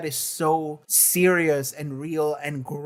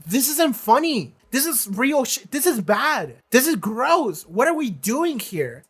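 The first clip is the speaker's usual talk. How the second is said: emphatic scolding, each short phrase pitched up; mock audience call-out; 4 semitones higher than usual. Show turns to the audience, acted indignant scolding. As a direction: act out confronting the viewers, point by point. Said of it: "look at the audience and be like".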